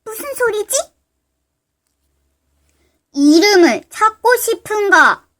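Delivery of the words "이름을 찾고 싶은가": slow mysterious voice. Acted. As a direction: draw it out like an unseen spirit. Mysterious voice repeats.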